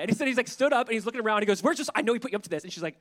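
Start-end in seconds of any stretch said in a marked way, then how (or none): 1.6-2.6 mock alarm easing into accusation; paranoid freak-out. The man looks around for Josiah, paranoid. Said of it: "he's all paranoid and freaked out".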